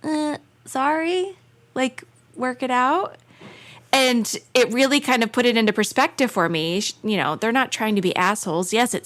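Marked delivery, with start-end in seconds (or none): 0.0-3.2 slow, offhand brush-off; dismissive shrug. Retold or imitated. Friend mocking an uncaring parent, slow and dismissive. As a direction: shrug it off like you don't care. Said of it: "be like".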